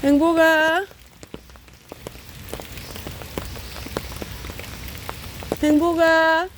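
calling out. Real, not acted. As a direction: call the cat in to eat. Calling a cat.

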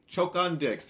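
can't believe what he just heard; outraged disbelief. Real, not acted. Outraged at insult.

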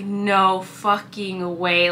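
slow, drawn-out "no fucking way", jaw on the floor; retelling a stunned reaction, each word stretched; stunned disbelief. Retold or imitated. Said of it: "I was like".

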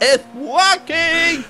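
talking with tongue out; words slurred by tongue out; tongue sticking out. Real, not acted. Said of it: "talk with my tongue out?".

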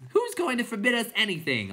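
high, loud clown challenge; chorus cry. A narrator's reading. Clowns challenging Bastian together, high loud cry. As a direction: cry it out as a rowdy crowd. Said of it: "all cried in chorus".

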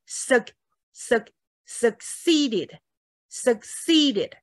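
short suc- then succeeded, slowly spaced; succeeded as suk-SEE-ded, no vowel after k; swallowed k, built up. Shown as a demonstration. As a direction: hold back the k in suc-, then add ceeded. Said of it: "一定有吞音的效果".

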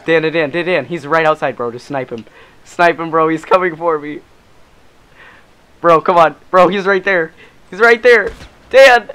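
escalating panicked yells; panicking gamer. Real, not acted. Being hunted, calling teammate.

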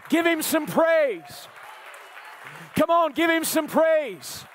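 slow, high call to praise; rallying call. Real, not acted. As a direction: rouse the church to praise. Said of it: "Come on, let's do it right now".

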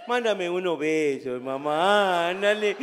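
begging for kisses, loud and slow. Retold or imitated. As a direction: grandpa begging granddaughter for kisses, loud syrupy plea. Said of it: "hablando como pendejo".

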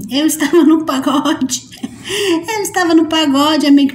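repeating the excuse through real laughter; laughing. Real, not acted. To a friend, laughing about being at the pagode. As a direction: giggle the words out, embarrassed at the excuse.

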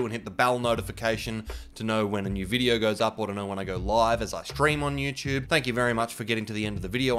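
blocked nose from a cold; nasally voice. Real, not acted. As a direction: talk through a stuffy nose. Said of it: "I'm sorry for my nasally voice".

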